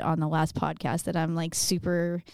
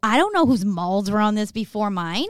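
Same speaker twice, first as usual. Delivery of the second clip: mock freaked-out partner; 2 semitones higher, 3 dB louder than usual. Host voicing what his co-host is thinking about the studio microphone, mock freaked-out. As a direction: mimic a germ-worried partner up in falsetto. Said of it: "that's what she's thinking. She's like".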